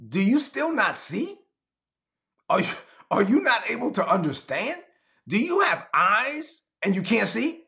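exasperated rebuke. Retold or imitated. Jesus rebuking the disciples on the boat, high and incredulous. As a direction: scold them in disbelief. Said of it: "He said".

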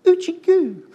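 put-on high cooing baby talk to the infant. Princess coos at the baby in the basket, high baby talk. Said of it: "has pity on it and goes".

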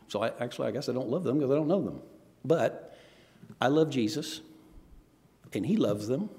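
understated, composed reply; very calm. Retold or imitated. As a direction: imitate someone calmly reasoning it out. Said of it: "Becca very calmly said".

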